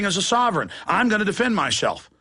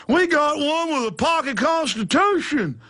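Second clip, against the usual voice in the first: high, hammed-up alarm; mock panic; 7 semitones higher than usual. Officer reporting a pocket constitution, mock high panic. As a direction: report it as if terrified.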